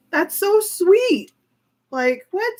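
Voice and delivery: high, slow and loud gush of delight. Real, not acted. Fan gushing about the giant Ruru gift, squealing delight. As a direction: squeal it out slowly, melting over a sweet gift.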